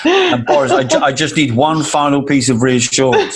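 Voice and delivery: hint of a pleading minister, laughing; lightly voiced Andrew Mitchell, imitated; mock pleading Andrew. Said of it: "you can imagine the scene".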